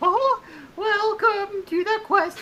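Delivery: very high cartoon mouse character voice. Greeting the party in character as a bard: Mickey Mouse voice. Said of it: "I don't think you need to do it every single second".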